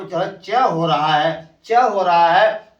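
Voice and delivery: ch in वॉच said as च, slow and deliberate; pronouncing ch. Shown as a demonstration. Teacher to class, spelling out sound, slowly. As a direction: draw out the च sound for students. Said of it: "इस सीएच का उच्चार हो".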